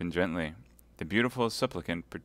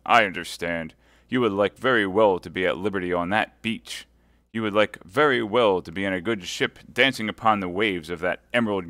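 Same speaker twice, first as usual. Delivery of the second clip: mocking nobleman, louder; sneering lord; 6 dB louder than usual. Lord de Winter mocking his prisoner Milady, louder. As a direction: taunt the prisoner with scorn.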